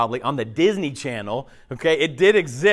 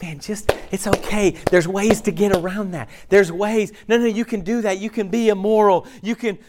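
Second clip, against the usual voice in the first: higher-pitched, breezy reassurance in imitation; mock permissive coaxing; 5 semitones higher than usual. Friend excusing another's compromises, mock permissive coaxing. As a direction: play the enabler talking someone into it. Mimics someone excusing sinful living.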